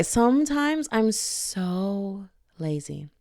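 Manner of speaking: slow, breathy whispered confession. Real, not acted. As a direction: whisper it like a guilty secret.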